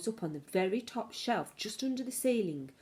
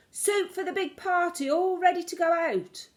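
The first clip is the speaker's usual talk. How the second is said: higher, louder shouted call; cook's shout; 10 semitones higher, 5 dB louder than usual. Acted. Cook calling out to the waiters, loud and high. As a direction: bellow it across the kitchen.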